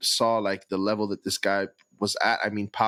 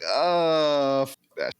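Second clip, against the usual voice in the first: mock Ja voice; 7 semitones higher, 3 dB louder, much slower than usual. Imitating Ja in meeting.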